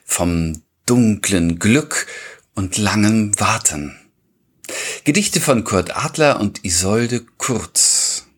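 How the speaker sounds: measured announcer delivery with deliberate pauses; podcast title announcement. Acted. Host announcing the episode and its poets to listeners, measured announcement.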